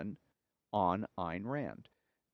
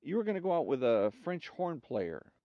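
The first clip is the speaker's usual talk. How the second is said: woman's voice; 2 semitones higher than usual. Acted. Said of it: "One says to the other".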